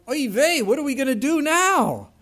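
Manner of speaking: put-on high, loud panicky Yiddish accent. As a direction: play a flustered priest in a Yiddish accent. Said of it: "I think they're like".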